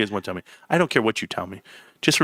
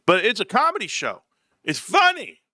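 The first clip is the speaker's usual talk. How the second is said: retold protest; 5 semitones higher than usual. Retold argument defending his show.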